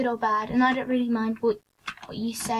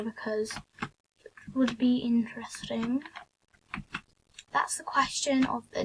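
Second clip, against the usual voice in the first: whispering; 4 dB quieter than usual. Real, not acted. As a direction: drop to a whisper as you finish. Trailing whispered aside.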